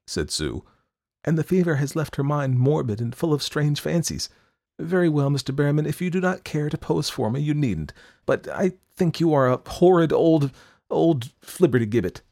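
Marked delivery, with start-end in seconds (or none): 1.2-12.2 put-on huffy young woman, louder; indignant. A narrator's reading. Sue to the old painter, indignant and huffy. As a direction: snap back in offended pride.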